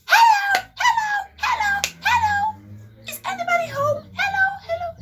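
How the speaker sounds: high, loud calling out across the yard; yelling. Retold or imitated. Aunt calling out the neighbors, mock yell. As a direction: shout for the neighbors to come out. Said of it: "she starts yelling".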